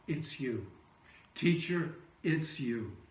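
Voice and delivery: soft, low and awed; hushed recognition. Retold or imitated. Mary recognising Jesus at the tomb, hushed awe. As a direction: breathe it out in quiet wonder.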